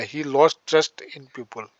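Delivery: drawn-out phrase for students to copy; teacher slowly spelling out a new phrase for the class; slow dictation. Shown as a demonstration. Lay the words down slowly, one by one. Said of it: "teacher dictates sentence".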